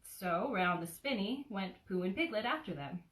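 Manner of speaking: put-on gentle storybook narration for a child; cozy read-aloud of a childhood book; bedtime story reading. A narrator's reading. Reads Winnie the Pooh aloud.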